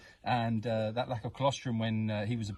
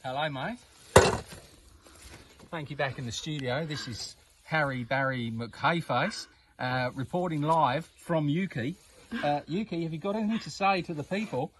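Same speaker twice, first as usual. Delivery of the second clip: mock Australian reporter. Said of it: "I don't know why I've gone Australian now".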